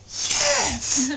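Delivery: high and loud mock insistence; emphatic yes. Takashi insisting the rock is a god, high loud yes. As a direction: insist it with full conviction. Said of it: "And he goes".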